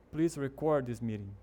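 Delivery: "record" stressed on its last syllable, re-CORD; verb stress. Shown as a demonstration. Teacher gives a verb example, "record" stressed at the end. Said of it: "o ênfase tá no final".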